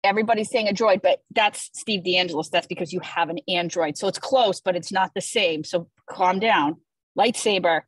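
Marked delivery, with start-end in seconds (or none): none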